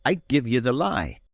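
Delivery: indignant. A narrator's reading. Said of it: "the blood starting to his face".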